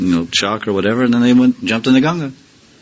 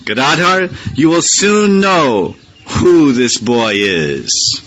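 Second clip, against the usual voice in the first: smiling reply; 5 semitones higher, 3 dB louder, much slower than usual. Retold or imitated. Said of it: "Advaita smiled and said".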